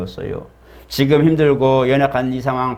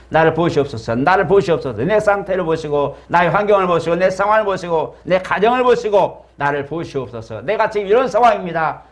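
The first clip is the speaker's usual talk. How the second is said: insistent plea, climbing higher as it repeats; crying out in prayer; 5 semitones higher than usual. Acted. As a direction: press the appeal to God in a raised voice. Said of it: "외쳐야 됩니다". (부르짖어 기도하듯)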